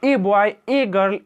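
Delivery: put-on "A" in "A boy, a girl" said as a full ay, slowly; slow demo with a long ay; a pronounced ay. Shown as a demonstration. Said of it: "और कुछ लोग बोलते हैं".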